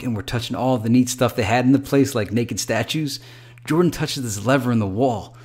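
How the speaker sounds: lively, excited bro retelling his night. Acted. Jeff telling his bro about the nightclub, excited. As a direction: gush it out like an excited buddy. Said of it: "He said excitedly".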